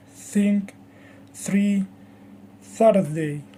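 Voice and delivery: think, three, Thursday with TH, tongue between the teeth; TH sound. Shown as a demonstration. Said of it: "the T H sound".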